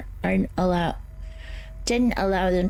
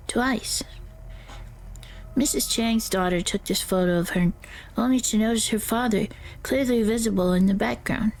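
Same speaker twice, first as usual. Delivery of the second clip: character voice. Acted. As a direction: guide narrator voice, eerie and measured. Reads ghost-hunting guide in character.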